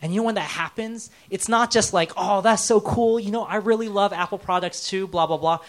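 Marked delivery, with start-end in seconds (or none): 2.2-5.6 higher, louder gushing small talk; mock enthusiasm. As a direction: gush shallowly, then trail into blah-blah. Mocks shallow shared-interest small talk.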